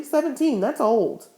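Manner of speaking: hopeless. Acted. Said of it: "said Winnie hopelessly".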